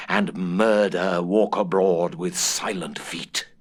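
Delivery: breathy narrator's whisper, slow; ominous whisper. A narrator's reading. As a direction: hush it like a dark secret. Narrator reads the ghost's dread oath.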